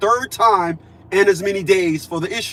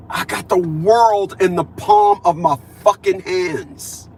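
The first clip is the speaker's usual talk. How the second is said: proud declaration; slower than usual. Real, not acted. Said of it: "as I will say here".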